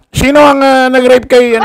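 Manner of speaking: high laughing question. Real, not acted. Host laughing at the director's name, laughing high. Laughing while asking who it was.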